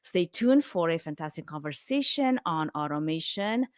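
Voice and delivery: measured, scripted promo read; podcast teaser read. Acted. Host previewing the episode for listeners, scripted teaser read. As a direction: read out the episode teaser, each point set apart.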